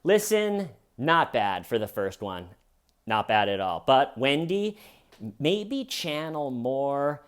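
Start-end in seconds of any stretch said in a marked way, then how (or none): 0.0-3.8 mock film director. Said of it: "I would say".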